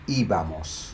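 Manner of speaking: íbamos with the stress on the opening Í; accented first syllable. Shown as a demonstration. Teacher conjugating ir for learners, stress on first syllable. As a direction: lean on the Í of íbamos, let -bamos follow. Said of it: "notice the accent on that one".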